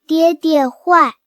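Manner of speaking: lightly voiced toddler, drawn-out words of blame; toddler accusing. Three-year-old blaming her father, slow childish accusation.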